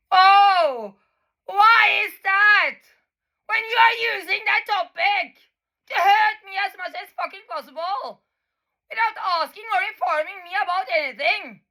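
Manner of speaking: real upset, voice breaking; tearful protest. Real, not acted. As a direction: let the tears break through the words. Renewed tearful outburst.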